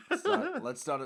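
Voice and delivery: half-laughing denial, pushing the joke away; laughing protest. Real, not acted. Co-host laughs off being linked to dictators.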